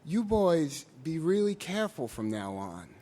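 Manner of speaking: mild unhurried warning from the trooper; calm. Retold or imitated. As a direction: softly say it, like a trooper letting them off. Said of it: "he very calmly said".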